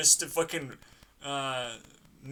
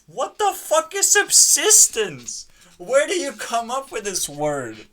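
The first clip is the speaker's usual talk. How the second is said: a shouted what-the-hell at the word; outraged yell; 7 semitones higher, 8 dB louder than usual. Real, not acted. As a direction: bellow it in disbelief.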